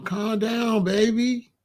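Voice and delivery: soft, soothing hush; calming. Acted. Man calming his upset woman down, soothing. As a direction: gently settle her down. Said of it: "we calm you down".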